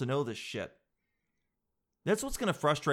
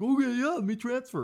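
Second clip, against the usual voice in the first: mock eager yes; 10 semitones higher, 4 dB louder than usual. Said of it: "And you're like".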